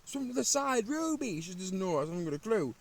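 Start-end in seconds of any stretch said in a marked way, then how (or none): 0.0-1.4 high-pitched call for the dog; frantic calling along the riverbank; retold shout. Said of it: "I'm shouting".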